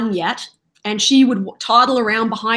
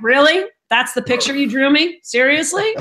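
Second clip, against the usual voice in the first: sarcastic; 4 semitones higher than usual. Retold or imitated. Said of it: "I'm really sarcastic in real life".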